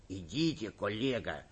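low, hushed urging; whispering. A narrator's reading. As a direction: quietly nudge a colleague. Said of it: "шепнул министр внутренних дел". (тихо, шёпотом)

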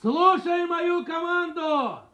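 slow, drawn-out drill command; commanding shout. Acted. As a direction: call it out to the whole formation. Major addresses formation. (строевая команда, протяжно)

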